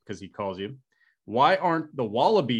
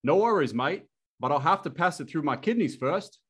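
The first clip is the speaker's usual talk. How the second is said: a higher, hammed-up Australian accent for "No worries, mate"; attempted Australian accent; 6 semitones higher than usual. Punchline of the Aussie joke for Mike, in a hammy Australian accent. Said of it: "that was the best Australian I got there".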